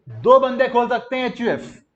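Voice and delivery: high, projected teacher call; leading a recitation. Shown as a demonstration. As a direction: call it out for the class to join in. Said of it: "मेरे साथ बोलना है".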